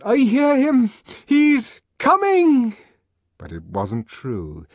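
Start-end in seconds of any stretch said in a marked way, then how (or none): 0.0-2.8 high, loud, forced-out cries; high emphatic yell in two bursts; shout. A narrator's reading. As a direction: shout along with the frenzied crowd. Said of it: "also jumped up and shouted".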